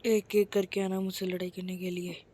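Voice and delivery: low, soft threatening villain voice; menacing villain. Acted. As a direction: dare them one by one, deep and quiet. Villain challenges fighters. (धीमी, गहरी खलनायक आवाज़)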